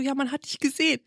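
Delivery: high, soft, giggly retelling; imitated accusation, cracking up; laughing mock bluff. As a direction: deliver the bluff through suppressed laughter. Retells her bluff while laughing.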